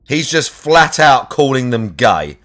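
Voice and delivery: "He's just flat out calling them gay" spelled out slowly; slow emphatic repeat. Shown as a demonstration. Streamer repeats his point to chat, slow and deliberate. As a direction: drag it out word by word to drive it home. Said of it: "repeats the line".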